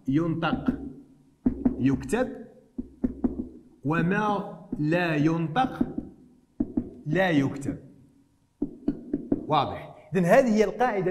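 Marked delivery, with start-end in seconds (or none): 0.1-7.8 slow, with a pause after each part; spaced rule. Shown as a demonstration. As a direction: dictate the rule in slow chunks. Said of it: "أهم قاعدة في الكتابة العروضية".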